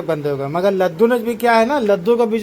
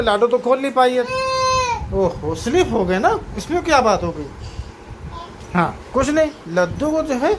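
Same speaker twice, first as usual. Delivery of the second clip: talking to toddlers; 5 semitones higher than usual. Real, not acted. Father talking to his toddlers.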